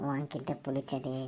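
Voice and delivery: low, slow, eerie spirit; slow ghostly voice. Acted. Ghost teasing the girl, low and slow. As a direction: linger on each word like a ghost.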